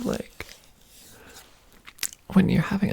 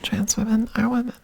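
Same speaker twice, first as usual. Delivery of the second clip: breathy whispered repeat. Shown as a demonstration. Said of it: "repeated voiced first".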